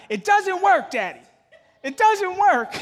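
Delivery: high, loud mock wail of a child; hammed-up kid's outburst, shrieking high; imitated tearful shout. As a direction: cry it out like an upset little girl. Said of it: "and shouted out".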